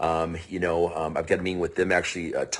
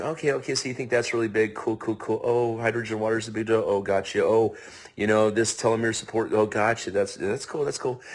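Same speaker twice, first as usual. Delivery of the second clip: polite. Retold or imitated. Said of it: "being all polite".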